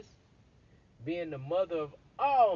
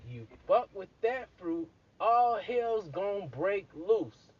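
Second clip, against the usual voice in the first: James's warning; 3 semitones higher, 4 dB louder, slower than usual. Retold or imitated. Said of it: "So James says".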